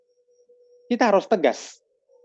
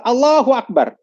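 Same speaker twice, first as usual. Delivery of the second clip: raised, louder imitation of a prayer leader; loud demonstrative takbir, pitched up; 6 semitones higher, 6 dB louder than usual. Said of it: "tatkala kita sholat".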